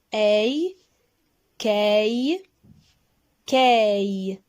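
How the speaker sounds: ei, kei, kei, clearly modelled; teacher modelling syllables. Shown as a demonstration. Teacher models syllables for pupils, clear and deliberate. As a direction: say ei, kei, kei slowly and clearly for the class. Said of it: "Répétez".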